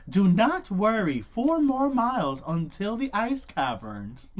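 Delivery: slow, calm cabin announcement; soothing flight attendant, unhurried; airline stewardess voice. Retold or imitated. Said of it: "airline stewardess voice".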